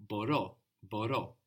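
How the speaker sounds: μπορώ starting with a B, stressed on the end; initial B sound. Shown as a demonstration. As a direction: say the μπ of μπορώ as one B. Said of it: "the first sound here is a B".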